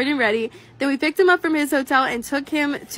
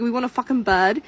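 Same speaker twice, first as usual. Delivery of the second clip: playful mock British accent; quick British impression of a catchphrase; 3 semitones lower than usual. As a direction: put on a British accent for an inside joke. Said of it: "like, a British accent".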